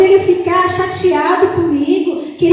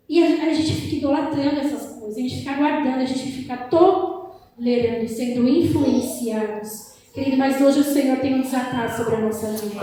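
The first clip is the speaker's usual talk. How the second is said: soft preaching; 5 semitones lower, 6 dB quieter than usual. Real, not acted.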